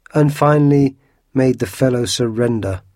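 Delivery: bragging. A narrator's reading. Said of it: "bragged Porthos".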